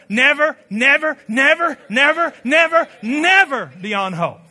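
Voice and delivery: building preacher cadence; preaching. Acted. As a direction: preach it, rising to the chorus. Preaching at full force.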